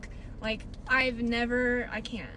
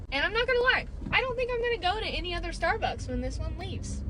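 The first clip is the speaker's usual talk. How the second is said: emphatic vow; 7 semitones higher than usual. Real, not acted. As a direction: swear it with big emphasis. Emphatic vow about Starbucks.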